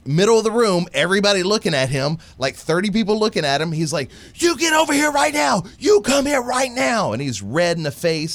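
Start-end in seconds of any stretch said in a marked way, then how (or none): 4.4-7.1 furious dad shout. Retold or imitated. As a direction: order the son over like an ogre. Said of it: "you're scaring me with the reenactment".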